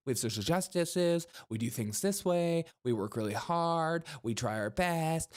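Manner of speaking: "justices", "way", "hard" and "best" lifted like questions; mocking uptalk. Host parodies gender studies staff listing virtues, mocking uptalk. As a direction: lilt upward on "hard" and "best" at each phrase end. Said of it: "get rid of Uptalk now".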